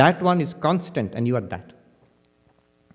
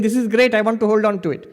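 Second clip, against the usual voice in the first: mock eager mind; 5 semitones higher than usual. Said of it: "Now that rascal is saying".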